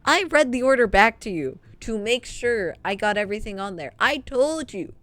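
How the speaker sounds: hammed-up fed-up rant at the customer; exasperated rant. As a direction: let the frustration climb to the last line. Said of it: "And I'm just like".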